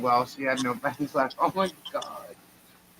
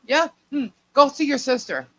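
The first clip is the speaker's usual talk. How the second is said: ominous hint; 9 semitones higher, 4 dB louder than usual. Retold or imitated. Mom ominously sending her.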